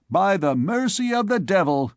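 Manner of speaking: put-on high cheeky young voice; cheeky retort. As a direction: fire back cheekily. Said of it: "retorted Joannes Frollo".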